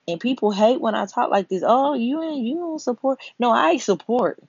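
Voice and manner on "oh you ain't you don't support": higher-pitched mock complaint; put-on accusing objection; mimicking critics. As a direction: imitate objectors in a raised pitch.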